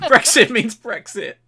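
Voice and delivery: high, loud, slow slogan voice; pompous slogan voice; politician slogan impression. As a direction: declaim it like a stiff minister.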